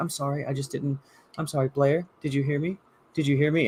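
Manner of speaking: meek apologetic voice. Imitating how she tries to act meek: imitating someone acting meek. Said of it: "tries to act, act meek".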